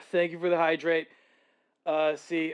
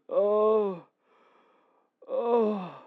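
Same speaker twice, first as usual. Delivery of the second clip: laughing; 4 semitones higher than usual. Real, not acted. Recovering from laughter.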